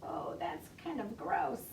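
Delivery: put-on whispered "ew" to the kids; whispered aside. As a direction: share a secret gross-out. Aside about spat gum.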